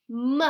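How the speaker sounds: "m" alone as a short "muh"; sounding out. Shown as a demonstration. Teacher reads with children, sounding out the first letter. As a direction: isolate "m" as one letter sound. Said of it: "read them together".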